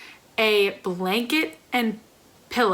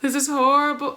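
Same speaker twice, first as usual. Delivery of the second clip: horrible said with raised, bigger emphasis; dramatic horror; 4 semitones higher than usual. Shown as a demonstration. Correcting herself to viewers, raised dramatic take. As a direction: play it up as a crisis.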